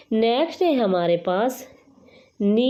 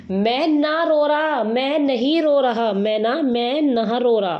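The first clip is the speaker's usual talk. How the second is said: drawn-out, higher-pitched mock whine; mock tearful denial; 3 semitones higher than usual. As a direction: slowly stretch it out like a pretend crybaby. Acted tearful denial as mnemonic. (रोने का नाटक करते हुए खींचकर)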